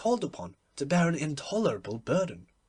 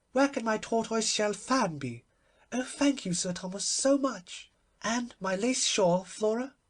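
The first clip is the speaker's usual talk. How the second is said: lightly voiced flustered old duchess, higher; fussy old duchess; 6 semitones higher than usual. Old Duchess thanking Sir Thomas, a lightly voiced fluttery duchess. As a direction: flutter about her fan and shawl.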